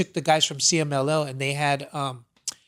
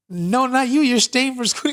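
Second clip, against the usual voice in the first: firm father; 8 semitones higher, 3 dB louder than usual. Retold or imitated. Father tells son he stays.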